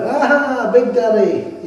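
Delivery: high, bluff mock greeting to Daddy; mock Jeff Capes. Jeff Capes greets Big Daddy, mock high hail. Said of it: "And he went".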